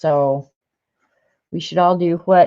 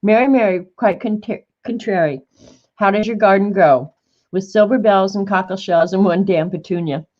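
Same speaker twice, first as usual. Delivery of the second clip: a hint of an old woman's nursery rhyme; imitating little Mary. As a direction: recite it the way Mary did, sing-song. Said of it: "this is the way she said it".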